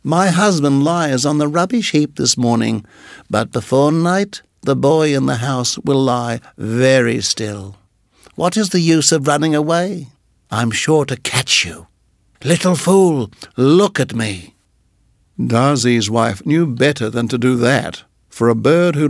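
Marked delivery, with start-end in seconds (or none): 0.0-7.8 cold menacing snake. Acted. Nagaina threatening, voiced. 8.3-14.5 cold menacing snake. Acted. Nagaina voiced.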